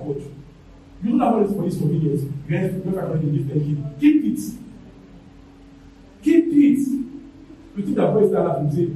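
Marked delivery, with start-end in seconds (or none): 4.0-6.8 loud, high, forceful refusal; shouted refusal. Real, not acted. Preacher refusing bribe money from the pulpit, shouting. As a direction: bark it out at full force, higher and louder.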